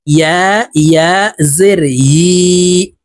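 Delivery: "ইয়া" formed with the middle of the tongue; slow, drawn-out spelling, "ইয়া" from mid-tongue. Shown as a demonstration. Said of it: "ইয়ার উচ্চারণ জিহ্বার মধ্যখান থেকে হবে". ("ইয়া" জিহ্বার মাঝখান থেকে, টেনে টেনে)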